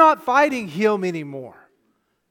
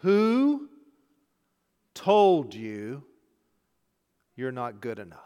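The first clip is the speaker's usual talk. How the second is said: gentle voice of God; 8 semitones lower, slower than usual. Acted. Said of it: "God the Father said".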